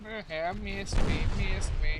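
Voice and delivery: dunk tank heckler. Real, not acted. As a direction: tease them like a carnival heckler. Taunting enemy after a miss.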